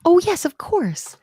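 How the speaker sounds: high, drawn-out dawning realization; sudden realization. Real, not acted. Teacher spotting the tag she forgot, sudden realization. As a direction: let it dawn slowly, pitched high. Suddenly spots her own coding mistake.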